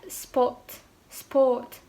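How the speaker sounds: "spot, sport" with a fully rounded O; round British O. Shown as a demonstration. Teacher giving examples of British vowels, round O. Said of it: "benar-benar O bulat gitu".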